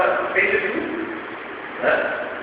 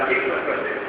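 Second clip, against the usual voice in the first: desperate mother; 3 semitones lower, 6 dB quieter than usual. Retold or imitated. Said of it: "aquela mulher desesperada".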